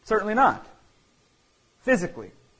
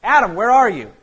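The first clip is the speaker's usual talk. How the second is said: Jesus calling loudly, higher through the garden; 5 semitones higher, 8 dB louder than usual. Acted. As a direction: call out across the garden, searching. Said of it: "he's going".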